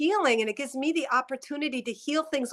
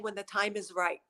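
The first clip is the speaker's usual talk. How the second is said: soft whisper; 3 semitones lower, 5 dB quieter than usual. Real, not acted. Medium receiving a message.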